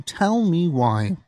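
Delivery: dramatic slowed whisper. Acted. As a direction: whisper it slowly, drawn out. Repeats the phrase as a whisper.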